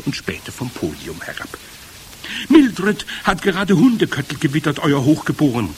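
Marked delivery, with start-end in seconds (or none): 2.5-5.7 raised, high reporting voice; calling up. A narrator's reading. Witch reports to the head witch above, calling up. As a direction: call it up to a superior. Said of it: "rief jemand zu ihr empor".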